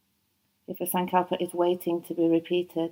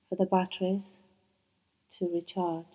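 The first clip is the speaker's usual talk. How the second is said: the same words repeated more softly, fading out; softer echo; 6 dB quieter than usual. Shown as a demonstration. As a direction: let the echo sink away into stillness. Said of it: "repeated phrase, softer echo".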